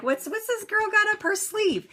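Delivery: high, put-on wary stranger voice; suspicious stranger. Strangers eyeing a smiling woman, in a high mock-suspicious voice. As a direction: pitch it up like a suspicious onlooker. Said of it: "and they're like".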